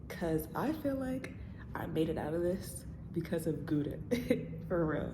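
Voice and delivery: hushed, half-laughing whisper. Real, not acted. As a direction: whisper it like a secret. Whispered confession about the dog.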